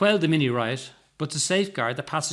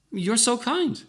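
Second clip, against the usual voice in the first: put-on old lady; 9 semitones higher, 3 dB louder, slower than usual. A narrator's reading. Old lady voiced, thanking.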